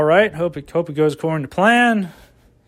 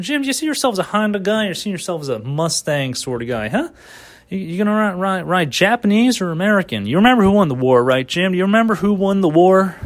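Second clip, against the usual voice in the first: car salesman voice; 3 semitones higher than usual. Pretend. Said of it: "You know, that sort of voice".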